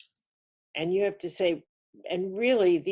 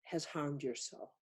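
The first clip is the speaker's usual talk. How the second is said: confession; 5 dB quieter than usual. Pretend. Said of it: "where I need to say to somebody".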